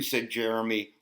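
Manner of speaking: lively storytime read; picture-book storytime voice; reading to children. Acted. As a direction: read the book to little ones. Reads picture book to kids.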